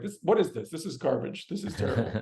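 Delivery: retold grumble at a bad burger; let down. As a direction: sink into disappointed disbelief. Retold disgust at burger back home.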